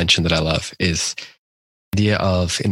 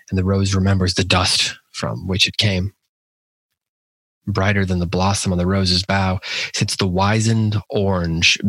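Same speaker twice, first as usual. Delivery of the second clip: measured, even poetry reading with pauses between lines; poem recitation. Acted. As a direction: recite the verse deliberately, letting each line settle.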